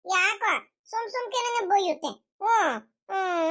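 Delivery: slow, whimpering grievance; tearful complaint. Acted. Grandson complaining grandpa scolds him, tearful whining. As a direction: drag it out with mock sobs.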